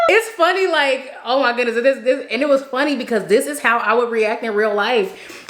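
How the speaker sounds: high-pitched, laughing through the words; cracking up at your own story, pitch settling gradually; real amusement. Real, not acted. Storyteller finds her own reaction funny, laughing.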